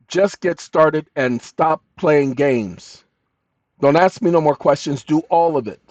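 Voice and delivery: loud, slow scolding of the bot. Real, not acted. Scolding the chatbot.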